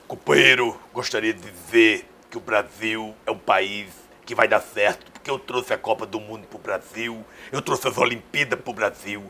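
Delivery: orate like the ex-president at a rally; Lula impression. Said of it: "a minha imitação melhor mesmo foi a Lula".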